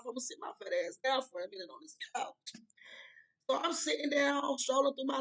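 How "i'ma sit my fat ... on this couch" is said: tired under-the-breath whisper; whispered aside. Real, not acted. Whispering to viewers, too tired to climb stairs. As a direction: drop to a whisper, worn out after work.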